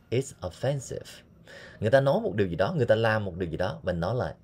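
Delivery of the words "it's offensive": slow modeled phrase. Shown as a demonstration. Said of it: "teacher demo, slow".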